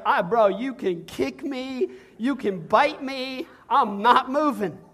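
slow, cocky donkey talking back; lightly voiced donkey, unbothered and slow; stubborn donkey. Donkey refuses to move.

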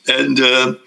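ordinary delivery

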